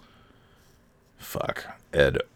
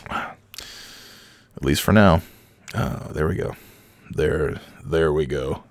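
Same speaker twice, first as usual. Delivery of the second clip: voice returning; much slower than usual. Real, not acted. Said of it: "get my voice to go back to normal".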